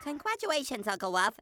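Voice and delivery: dry, mocking congratulations; sarcastic. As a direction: congratulate him without meaning it. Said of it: "That was the lamest introduction ever".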